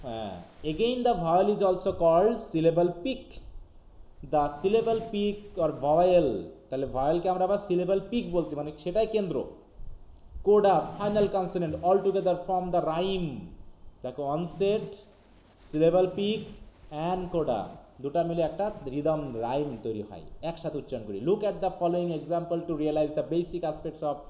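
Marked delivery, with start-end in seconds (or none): 0.7-6.3 slow, deliberate reading of an English definition; dictating slowly to students; slow textbook reading. Acted. 10.5-13.3 slow, deliberate reading of an English definition; dictating slowly to students; slow textbook reading. Acted. Reads English text. 21.3-24.2 slow, deliberate reading of an English definition; dictating slowly to students; slow textbook reading. Acted. Reads English text.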